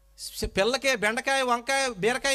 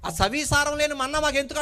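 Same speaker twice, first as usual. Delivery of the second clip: raised, whiny complaint of a crowd fed up with manna; a crowd in the desert grumbling at Moses, raised and whining; 5 semitones higher, 4 dB louder than usual. Acted. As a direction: complain like hungry people sick of the same food. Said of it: "అంటున్నారు".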